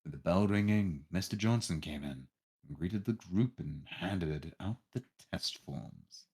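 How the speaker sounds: measured storyteller's read; story narration. A narrator's reading. Narrator telling players about the test day, story narration. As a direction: narrate it clearly, phrase by phrase.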